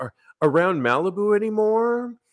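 high, awkward voice, fumbling at the start. Retelling what Caitlyn Jenner said to a singer: awkward Caitlyn Jenner impression. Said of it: "in the most awkward way says".

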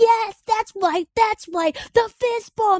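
very high, ecstatic, excited cheering scream. Recalling cheering while watching the inauguration: retelling an excited scream. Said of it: "I was screaming at the top of my lungs".

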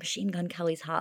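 soft, hushed half-whisper under the breath. Showing how they gossip at home so mom won't hear: half-whispering. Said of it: "I'm, like, whispering".

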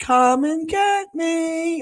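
very slow, very high, breathy, drawn-out taunting horror voice. Imitating how voices in horror movies always sound: imitating a breathy horror-movie voice. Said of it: "it's always very breathy".

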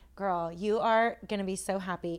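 normal talking voice

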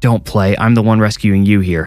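plain

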